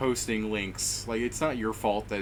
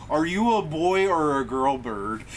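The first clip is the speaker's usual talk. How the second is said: curious character voice; 4 semitones higher, slower than usual. Acted. Mia voiced asking bird.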